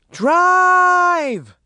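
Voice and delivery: high, drawn-out yelled command; yelling. A narrator's reading. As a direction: yell to get away now. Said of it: "Maureen yelled".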